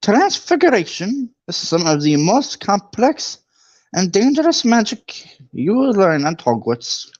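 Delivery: high, stern Scottish teacher; McGonagall voice. Acted. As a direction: lecture the class like a strict old witch. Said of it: "I gotta do McGonagall's voice".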